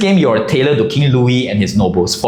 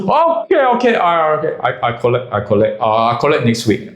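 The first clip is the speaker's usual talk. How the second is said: caving in, voice sinking; meek backing down. Retold or imitated. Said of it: "And then he goes".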